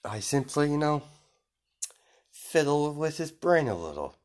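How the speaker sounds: high, put-on character voice; airy villain voice. Villain explaining the brain tampering, in high airy voice. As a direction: pitch it high and breezy.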